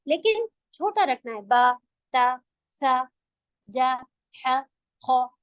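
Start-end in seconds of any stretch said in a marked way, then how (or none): 1.4-5.4 slow, even, short vowels on बा ता सा; short syllable drill. Shown as a demonstration. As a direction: demo each letter kept short. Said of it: "ऐसे".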